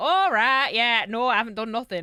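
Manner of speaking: put-on Northern English accent. Showing how their Northern character should have answered a police officer, in a Northern English accent. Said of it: "so I should be Northern and be like".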